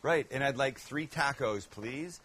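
mock Canadian with flat A in tacos; Canadian accent. Cook ordering tacos as a Canadian, mock Canadian accent. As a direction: poke fun at Canadian speech. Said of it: "as the Canadians would say".

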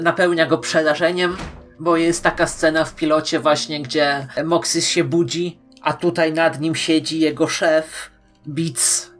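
normal talking voice

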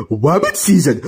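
"Rabbit" said as "wabbit", pitched low; low cartoon duck with R turned to W in "Rabbit"; cartoon speech impediment. Cuphead playing Daffy's role in an argument, "Rabbit" as "wabbit". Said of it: "you were so off the speech impediment".

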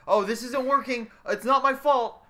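hammed-up whine of denial; whiny blaming. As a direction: squeal the excuse like a sore loser. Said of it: "Or it's like".

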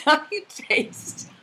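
soft laughter at the cat; kind gentle laugh. Real, not acted. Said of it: "I'm not laughing at you".

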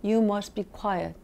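very slow, firmer command; a stricter teacher's warning. Shown as a demonstration. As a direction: lean on each word, stricter now. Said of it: "좀 세게 얘기합니다".

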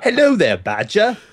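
put-on British accent. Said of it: "do your best American accent badge and British accent".

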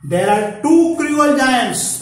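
high, loud, very slow warning; ominous king's warning. Acted. King warning Gopal about cruel giants, slow and grave. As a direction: make the giants sound menacing.

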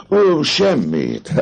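high, slow, teasing "oh, nothing"; coy denial. Acted. Captain dodging the girl's question, teasingly. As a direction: brush it off playfully, drawn out. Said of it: "felelte Főbusz".

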